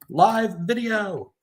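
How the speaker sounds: very high, drawn-out sing-out; sing-song exclamation. Real, not acted. Presenter joking after an interrupted recording, high playful sing-song. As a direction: sing it out high, holding each word.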